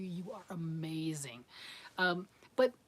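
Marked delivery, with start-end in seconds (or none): 0.0-1.4 slow, low, hushed admiration; softly savoured compliment, slow and low; admiring praise. Retold or imitated. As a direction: draw it out softly, in awe. Voicing her praise of ambitious viewers.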